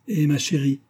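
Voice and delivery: sigh-free, loving reproof; tender reproach. A narrator's reading. Old nurse answering her darling, tender reproach. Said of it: "avec tendresse et reproche".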